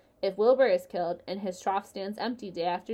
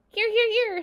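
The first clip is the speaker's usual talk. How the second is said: high, loud gander honking its answer three times; 8 dB louder than usual. Acted. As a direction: squawk it out like a proud gander.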